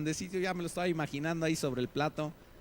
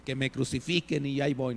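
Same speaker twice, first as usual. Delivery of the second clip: soft, lower, overly devout mock piety; mock pious believer; 3 semitones lower, 4 dB quieter than usual. Preacher mocking a super-spiritual listener, soft and devout. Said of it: "dirás".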